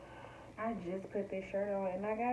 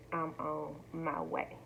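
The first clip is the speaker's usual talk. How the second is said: slow emphatic; 3 semitones lower, slower than usual. Retold or imitated. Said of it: "when I stated".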